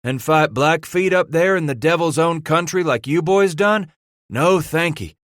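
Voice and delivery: scornful. Acted. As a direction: scoff at the very idea. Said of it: "Silas snorted".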